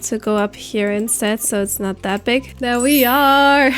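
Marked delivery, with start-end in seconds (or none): 2.6-3.7 excited reveal. Real, not acted. Reveals finished butterfly build.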